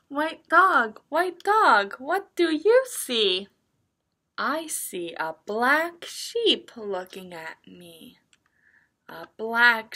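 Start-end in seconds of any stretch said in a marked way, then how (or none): 0.1-8.2 picture-book reading. Acted. Teacher reads a picture book to young children, sing-song reading. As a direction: read it in a lilting story rhythm.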